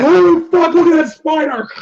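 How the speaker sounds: mock startled yelp. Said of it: "be like".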